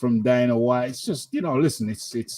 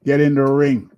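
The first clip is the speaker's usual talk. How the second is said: shouting; 2 semitones higher, 6 dB louder than usual. Real, not acted. Hyping fighter to get in ring.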